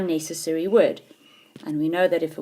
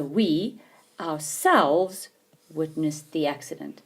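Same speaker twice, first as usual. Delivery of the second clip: slow example reading; slower than usual. Shown as a demonstration. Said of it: "when a reflexive pronoun follows".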